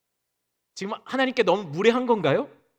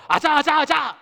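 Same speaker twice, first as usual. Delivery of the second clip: cheering oneself on; 9 semitones higher, 5 dB louder than usual. Retold or imitated. Pepping himself up to go on.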